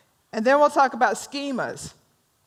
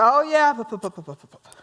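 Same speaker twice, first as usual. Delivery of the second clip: dismissive blah blah; faster than usual. Retold or imitated. Audience's knee-jerk reaction voiced.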